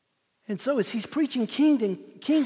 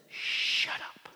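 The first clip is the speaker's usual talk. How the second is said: forceful breath with a long SH; impolite command. Shown as a demonstration. Jesus to the demon, forceful whispered command. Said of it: "he's not being polite to the demon".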